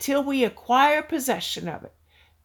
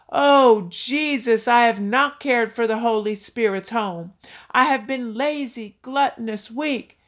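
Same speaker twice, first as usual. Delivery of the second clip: pitiful praying. Retold or imitated. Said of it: "Stop the pitiful praying".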